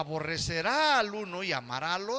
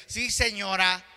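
annoyed grandson; 2 semitones higher, 7 dB louder than usual. Retold or imitated. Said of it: "El nieto cuando se enoja".

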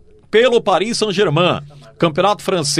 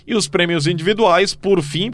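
all in one breath. Real, not acted. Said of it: "eu tô quase aqui sem respirar".

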